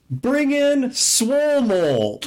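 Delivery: high, drawn-out chipmunk-like squeal; chipmunky queen. Retold or imitated. Gamer imitating a young player's mole queen, high chipmunky voice. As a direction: slowly announce it in a high cartoon falsetto. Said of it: "super chipmunky voice".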